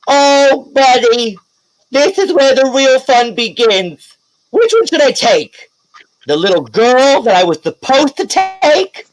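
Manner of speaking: high, taunting villain voice; high, slow, mocking killer clown voice; menacing villain clown. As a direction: gloat over the choice like a sadistic clown.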